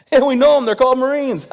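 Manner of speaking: cracking up at his own joke, high and loud; laughing. Real, not acted. Punchline about Marines, laughing.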